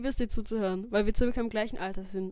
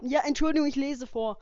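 louder; 3 semitones higher, 5 dB louder than usual. Real, not acted. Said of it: "Du musst lauter reden".

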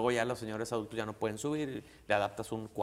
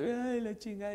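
imitated crying mom; 10 semitones higher than usual. Mom crying over lost money.

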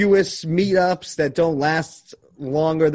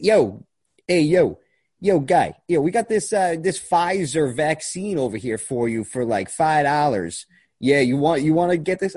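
put-on Philadelphia street-guy accent; Philly accent; 2 semitones higher, slower than usual. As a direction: loose South Philly street hustler voice. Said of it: "That's the Philadelphia accent".

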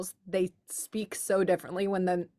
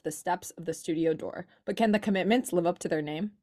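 dramatic blurb reading. Acted. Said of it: "That being so dramatic".

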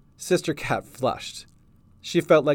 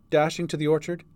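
ordinary delivery

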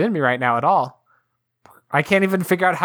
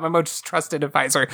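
mocking echo. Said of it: "what are you talking about".

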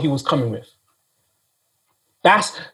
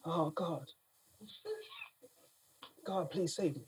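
mock pleading; 13 dB quieter than usual. Preacher voices a fearful plea.

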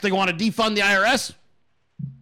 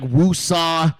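slow calming breath; 4 dB louder than usual. Shown as a demonstration. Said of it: "I'm trying to".

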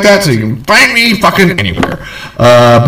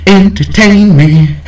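entertain me drawn out and slower; slower demand; 3 semitones higher, slower than usual. Shown as a demonstration. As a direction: ask again, slower and more insistent.

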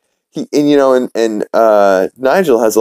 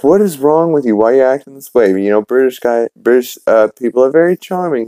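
lightly voiced wife, pitched higher; higher-pitched mock reproach; imitating a scolding wife; 6 semitones higher, faster than usual. Wife questioning her husband's behavior, mildly exasperated and higher-pitched. Retelling Lois scolding Peter.

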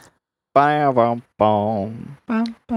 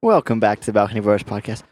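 a hint of a put-on intro; lightly mimicked podcast intro; imitating Josh; 2 semitones lower than usual. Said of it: "It did a really good impression of me".

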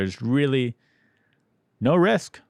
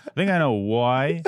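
mock Irish "why"; teasing imitation of an Irish accent; imitated Irish accent; 3 semitones higher than usual. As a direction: copy the Irishman's round-vowelled "why". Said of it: "correcting you saying why".

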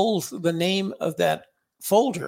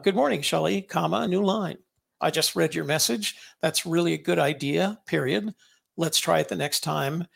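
dictating. Shown as a demonstration. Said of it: "I've gotten really good at saying".

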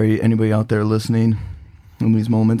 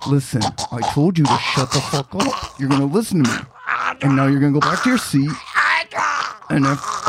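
menacing threat. Acted. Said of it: "Andrew speaks over the gurgling".

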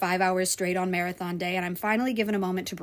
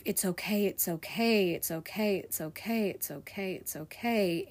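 softer and softer, each "it's okay" fading; self-soothing; 5 dB quieter than usual. Retold or imitated. Crying alone in the basement, whispering to herself, fading. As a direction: soothe yourself, fading almost to nothing. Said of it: "the thoughts that ran in my head".

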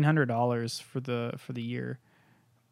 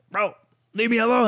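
louder, higher re-enacted outburst; retold scream; 9 semitones higher, 6 dB louder than usual. Son telling his dad to back off, retold scream. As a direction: raise your voice as if fed up, short of a full scream. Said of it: "I fucking screaming at him".

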